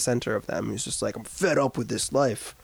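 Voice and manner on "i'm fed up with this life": a mock British accent, lightly done; lightly hammed-up British accent. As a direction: play a fed-up angry young Brit in a British accent. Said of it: "That's my British accent".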